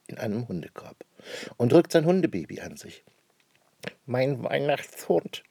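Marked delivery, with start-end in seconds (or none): 4.1-5.4 slow, drawn-out happy call; joyful cry. Acted. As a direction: savour the gift. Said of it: "ruft Schnüpperle". (Schnüpperle ruft glücklich über den Hund)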